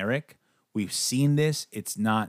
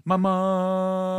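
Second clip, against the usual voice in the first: imitating little girl; 8 semitones higher than usual. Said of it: "kept fucking saying".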